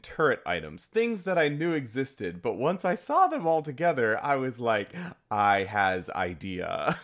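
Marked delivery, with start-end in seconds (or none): 5.3-7.0 slow, dumb caveman voice; dopey meme voice. Retold or imitated. Meme voice idea moment.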